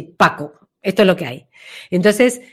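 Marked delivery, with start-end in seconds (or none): 0.0-0.5 grounded Paco. Shown as a demonstration. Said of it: "es como pura tierra".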